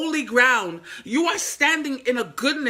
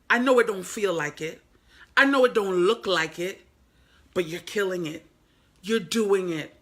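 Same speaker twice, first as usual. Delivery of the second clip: tender encouragement; 4 semitones lower than usual. Acted. Telling struggling viewers they're killing it, tender and low. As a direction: reassure them gently and low.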